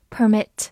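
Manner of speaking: "permit" stressed on the end, per-MIT; stress on second syllable. Shown as a demonstration. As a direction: say "permit" as the verb, weak per, strong MIT. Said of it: "它的重音放在了前面". ("permit"重音放在第二音节)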